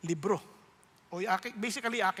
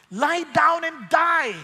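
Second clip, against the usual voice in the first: tempting evil whisper; 6 semitones higher, 8 dB louder, much slower than usual. Acted.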